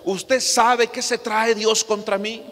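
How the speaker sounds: hint of a puzzled church sister asking the pastor; church sister quoted. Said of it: "me dice una vez una, una hermana".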